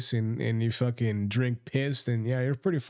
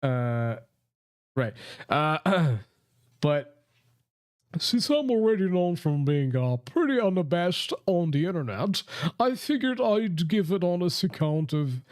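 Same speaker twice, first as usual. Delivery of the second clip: put-on posh British accent. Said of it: "posh British".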